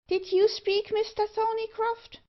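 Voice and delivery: very high dwarf voice; startled dwarf. Acted. Dwarf asks Thorneycroft who spoke, in a high voice. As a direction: pipe the question up high.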